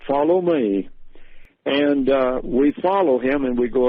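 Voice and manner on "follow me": lightly imitated British butler; a hint of a British accent, as a butler. Butler greets arriving family in the clearing, lightly British accent. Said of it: "he says in his British accent".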